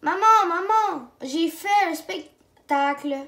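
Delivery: loud, high eager calling; excited. Acted. Boy excitedly tells mother about the show, eager. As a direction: burst in with big news. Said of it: "Caillou est tout excité".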